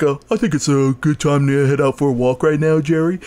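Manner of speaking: lightly voiced cheerful dog; a hint of a polite dog; friendly dog voice. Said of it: "the dog is voiced in, like, a".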